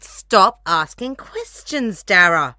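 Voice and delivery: fed-up scolding. Acted. Fed-up mom scolds her son.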